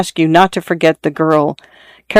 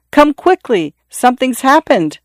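high, urgent call for help; urgent cry; 7 semitones higher than usual. Acted. Servant calling the hunters, an urgent high cry. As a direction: cry out for the others to come. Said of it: "he cried".

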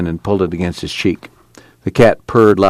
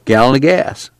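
put-on a slightly higher, glib young clerk; lightly voiced store clerk; 7 semitones higher than usual. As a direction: sell it to her, a bit smug. Clerk voiced in read story.

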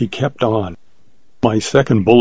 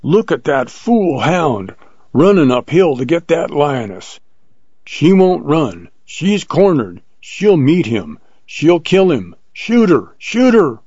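high, urgent hunter's cry climbing at the end; piercing command; 6 semitones higher than usual. A narrator's reading. Plainsman urges companion to save the hound, piercing. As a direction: cry out high, building to a frantic order. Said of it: "the old plainsman's piercing voice".

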